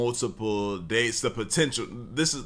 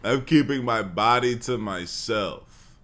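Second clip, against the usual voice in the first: slow, mock-prim Oh my goodness; mock the girl's reply in a slow prim voice; mocking prim woman; 3 dB louder, slower than usual. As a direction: ham up a prissy lady. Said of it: "You like".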